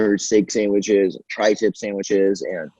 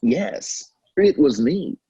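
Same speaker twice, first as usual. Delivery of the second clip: announcer voice; 3 semitones higher, much slower than usual. Retold or imitated. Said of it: "I'd be like".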